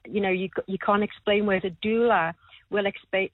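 ordinary delivery

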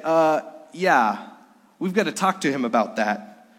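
a light mock German accent. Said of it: "he said it with a German accent".

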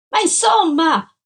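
loud, high, drawn-out outburst; exasperated shout. A narrator's reading. Man demanding answers from an evasive woman, exasperated shout.

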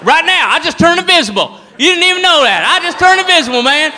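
put-on excited drunk redneck bragging; drunk redneck brawler. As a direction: brag wildly that you turned invisible. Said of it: "redneck fight".

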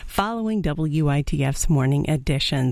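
slightly winded; out of breath. Real, not acted. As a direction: talk while catching your breath. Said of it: "Sorry, I'm a little out of breath".

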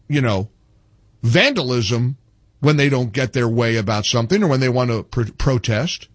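deadpan, eye-rolling sarcasm; sarcastic. Acted. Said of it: "of course, sarcastic".

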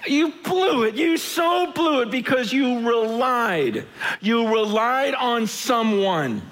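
slow, emphatic you so blew it; emphatic rebuke. Retold or imitated. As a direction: drive home the failure, slowly. Prophet rebuking King Asa.

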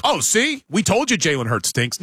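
a touch of mocking I-told-you-so; mock gloating. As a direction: lightly imitate a smug hater. Mimicking the Hurts haters.

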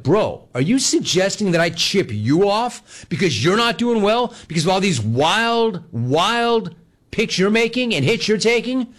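high, drawn-out indignation; incredulous challenge. Retold or imitated. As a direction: challenge him, slow and high-pitched. Retold quarrel, indignant accusation.

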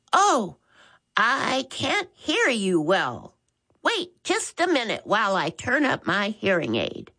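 hint of a fussy old woman on the phone; elderly caller. Old Maud Bagwell on the phone with Max, lightly voiced old lady.

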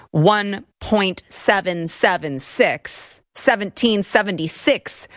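deliberate emphasis. Real, not acted. Correcting the media's rounded figure.

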